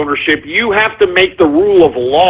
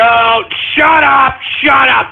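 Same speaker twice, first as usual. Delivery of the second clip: shouting; 6 semitones higher, slower than usual. Real, not acted. Denying a prank clip.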